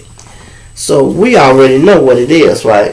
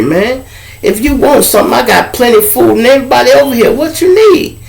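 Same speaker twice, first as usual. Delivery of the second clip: voice of reason; 7 semitones higher than usual. Retold or imitated. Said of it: "I'm always the voice of reason".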